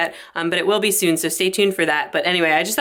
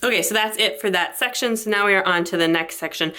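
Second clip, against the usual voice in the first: breathless pregnant talking; short of breath between words; 3 semitones higher than usual. Real, not acted. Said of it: "sorry if I sound so out of breath".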